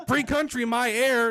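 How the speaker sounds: loud, high mock Southern retort; brash smoker with a Southern accent. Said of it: "See, the Southern accent just came out".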